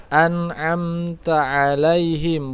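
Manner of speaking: slow "an'amta alaihim" with two throaty ains; hamzah then ain. Shown as a demonstration. Teacher models the letters, slow "an'amta alaihim" with distinct ains. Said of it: "hamzah ain ain".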